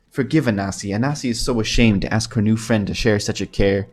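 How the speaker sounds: lightly voiced Khajiit accent, mildly apologetic; a touch of worried Khajiit accent. Anasi admits she fears the bad dustman, light Khajiit accent. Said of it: "is this a good Khajiit accent?".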